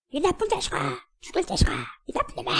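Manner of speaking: curses bouncing back off the mountain; imitated echo. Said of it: "이 소리가 자기 귀에 다시 돌아와". (메아리처럼 되돌아오는 높은 소리)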